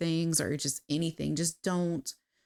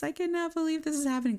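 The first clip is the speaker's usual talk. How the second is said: high, fast, thrilled gush; can't believe it, bursting with excitement; squealing with delight at the reunion; excited disbelief; 10 semitones higher, faster than usual. Real, not acted. Narrator gushing over game reunion.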